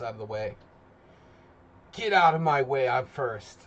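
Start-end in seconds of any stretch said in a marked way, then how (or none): 1.9-3.6 mock shove. Voicing a viewer who pushes into the simul, loud and pushy. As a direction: shove everyone aside to be first.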